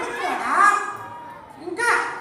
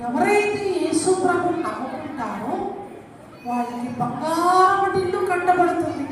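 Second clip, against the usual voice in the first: Beauty puppet; 8 semitones lower than usual. Pretend. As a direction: coax the children sweetly. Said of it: "ఈమె పేరు బ్యూటీ". (Beauty బొమ్మ మృదువుగా పిల్లలకు చెప్తుంది)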